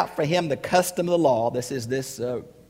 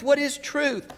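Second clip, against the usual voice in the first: raised question; 12 semitones higher, slower than usual. Acted. Rhetorical question repeated.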